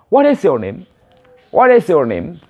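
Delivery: WHAT IS YOUR NAME run together quickly; quick connected version. Shown as a demonstration. Teacher shows how the question sounds said fast, quick and linked. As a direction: link the words into one smooth question. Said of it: "kalau secara cepat nanti akan dibilang".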